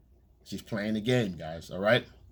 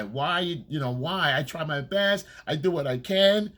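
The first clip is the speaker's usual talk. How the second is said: mock crying girlfriend; 3 semitones higher than usual. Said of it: "She starts to cry".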